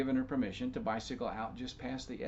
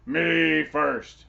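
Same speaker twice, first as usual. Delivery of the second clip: very loud, higher, bossy claim; pushy giant; 4 semitones higher, 12 dB louder than usual. Acted. Giant insisting on going first, very loud. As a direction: demand to go first.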